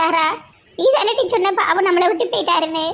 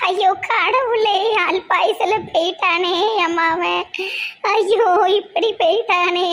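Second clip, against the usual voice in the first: hammed-up wailing. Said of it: "இப்படி performance பண்ணிட்டு".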